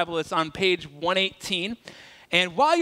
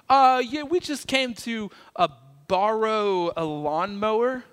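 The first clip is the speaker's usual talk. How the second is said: lame excuse; 3 semitones higher, slower than usual. Retold or imitated.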